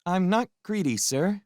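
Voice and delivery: put-on high, carefully polite boy; stiffly polite, hiding indignation; politest voice. A narrator's reading. Boy answering the guests in his politest voice. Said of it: "he said in his politest voice".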